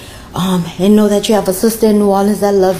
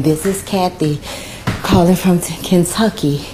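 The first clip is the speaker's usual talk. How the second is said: imitated Kentucky southern twang; a touch of borrowed southern twang; Kathy's southern twang. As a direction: lightly mimic a little southern twang. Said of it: "in her little southern twang".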